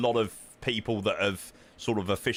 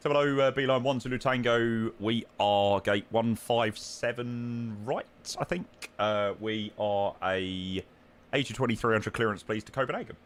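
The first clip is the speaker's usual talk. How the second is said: air traffic control radio. Acted. Pilot radio call to tower.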